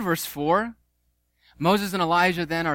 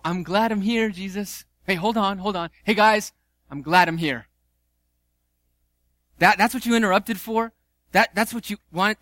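mock incredulity; 3 semitones higher, 3 dB louder than usual. Mocking Peter's interruption.

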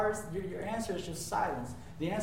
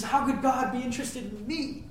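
higher, hushed voice of a humbled David; a hint of humble disbelief; 7 semitones higher than usual. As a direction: wonder aloud like a small man under the stars. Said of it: "He says".

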